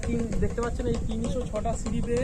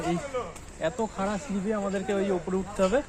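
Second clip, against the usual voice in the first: out of breath. Real, not acted. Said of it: "আমি হাঁপিয়ে গেছি পুরো".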